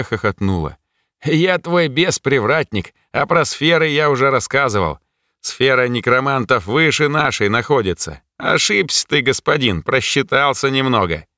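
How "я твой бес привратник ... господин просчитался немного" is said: smug gatekeeper lecturing his master; demon gatekeeper. Acted. Demon gatekeeper corrects the mage, smug and lightly voiced.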